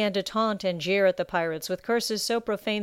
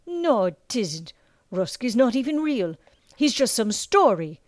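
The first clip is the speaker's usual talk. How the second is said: doubting sailor; 4 semitones higher, 5 dB louder than usual. Acted. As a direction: wave the legend away. Sailor denies Rusk exists.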